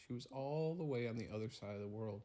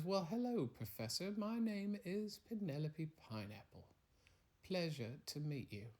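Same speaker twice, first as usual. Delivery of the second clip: put-on higher, polite little-girl voice; young girl Penelope; 5 semitones higher, 4 dB quieter than usual. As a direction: greet the stranger like a well-mannered young girl. Young girl Penelope answers door.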